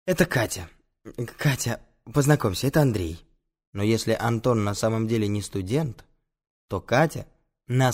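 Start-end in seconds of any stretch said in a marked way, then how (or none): 0.1-3.2 lightly breathy, smitten introduction; a touch of lovestruck breathiness; with aspiration. Acted. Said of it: "и говорит с придыханием".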